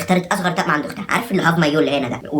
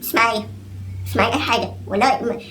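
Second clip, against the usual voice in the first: lightly voiced whining rich man pleading poverty; higher, whiny mock plea; mock poor whiner; 5 semitones higher than usual. Mocking a rich man who claims he's broke, whiny. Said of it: "هو يقول لك".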